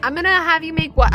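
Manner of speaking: ordinary delivery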